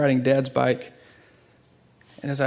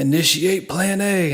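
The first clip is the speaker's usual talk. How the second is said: slow fading voice; 4 semitones higher, slower than usual. Retold or imitated. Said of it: "his voice is already starting to go".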